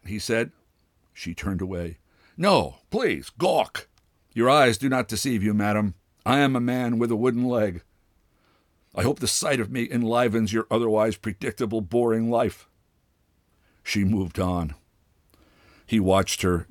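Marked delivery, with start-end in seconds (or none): 2.4-12.7 mock-gracious taunt. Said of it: "That last part he spoke quite loudly".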